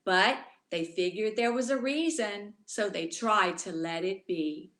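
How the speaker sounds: put-on rhythmic rhyming read-aloud for children; storybook reading. A narrator's reading. Teacher reading a rhyming book to children, gently. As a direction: read the rhymes to the little ones.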